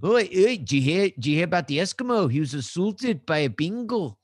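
loud, hammed-up mock Australian accent, "Oi, oi". To co-host, telling a pun in a mock Australian accent. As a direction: bark "Oi, oi" like a jokey Aussie. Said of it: "like, Australian for a moment there".

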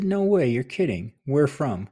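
no way, caught completely off guard; surprised disbelief. Retold or imitated. Host retells reacting to Drew's home town, surprised. Hearing Drew's shared hometown.

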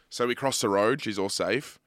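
normal talking voice

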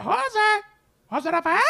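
very high squawky "José"; parrot voice. Retold or imitated. Grandma's parrot calling the speaker's name, high and squawky. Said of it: "ese loro decía".

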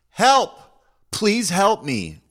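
high piercing scream for help; imitating a woman screaming for help; retold screaming. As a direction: shriek it out, pleading and desperate. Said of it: "a woman is screaming".

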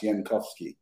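"Yankowski" begun with a Y sound; Old-country Y in place of J on "Yankowski"; original pronunciation. Shown as a demonstration. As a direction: say "Yankowski" with YAN at the start. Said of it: "I heard it's pronounced".

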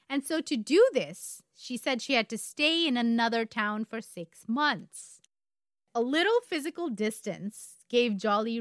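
measured, emphatic storyteller; story narration. A narrator's reading. Co-host telling a true crime story, story narration. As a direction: pace it out, leaning on key words.

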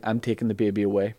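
fast, soft, unvoiced whisper; secretive whisper. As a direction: hiss it like a scheming wizard. Merlin takes the baby.

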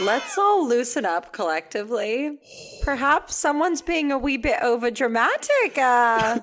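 loud, hammed-up plea for calm; mock mediator. Friend gently calling out the drama, mock mediator. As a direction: put on a prissy peacemaker act.

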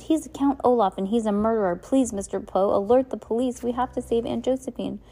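desperate to make Poe act; urgent shout. Acted. Klaus begging Mister Poe to alert the police, loud high plea. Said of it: "Klaus shouted".

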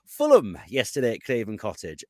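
terrible mock Geordie accent. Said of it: "This is my terrible Geordie accent".

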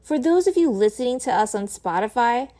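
upbeat scripted plug for the show; podcast outro read. Real, not acted. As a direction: read out the socials and merch like a host signing off.

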